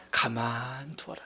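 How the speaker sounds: slow, low, gentle voice of the master; calm master's command. Retold or imitated. Preacher voicing the master telling servants, slow and low. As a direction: let it settle, unhurried and low. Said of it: "주인 이르되".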